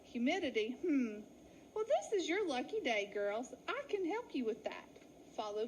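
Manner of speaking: put-on knowing, sly old ewe; sly grin. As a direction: let them walk into the trap. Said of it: "Betty Mudden slowly grinned".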